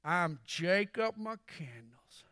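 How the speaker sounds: slow, drawling John Wayne imitation; lightly voiced cowboy drawl; a hint of John Wayne's slow drawl. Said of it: "And John Wayne replies".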